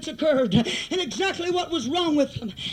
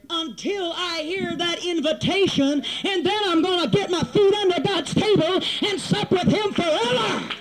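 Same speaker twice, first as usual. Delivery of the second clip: preaching climax. Real, not acted. Preacher vowing to sup at God's table, preaching climax. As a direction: swell toward a triumphant final word.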